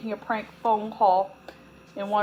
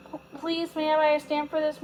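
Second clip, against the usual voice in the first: polite ask; 6 semitones higher than usual. A narrator's reading. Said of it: "Mary Ellen asked politely".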